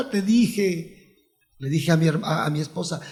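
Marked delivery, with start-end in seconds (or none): 0.1-1.2 chuckling through it; a gloating laugh on the words; relieved laughing I told you so. Retold or imitated. Told you so, doctors' news.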